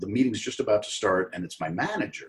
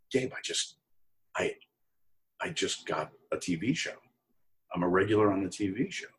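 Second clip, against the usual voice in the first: softer, half-whispered news of the TV job; hushed disbelief; 5 dB quieter than usual. Retold or imitated. Telling his boss Gabe about the show, hushed. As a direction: breathe it out, stunned.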